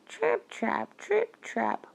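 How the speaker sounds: very high, light trip-trap; tiny hoof sounds. A narrator's reading. Storyteller voices the youngest goat crossing the bridge, tiny and high. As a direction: sound out little hooves, very high. Little goat's hooves on bridge.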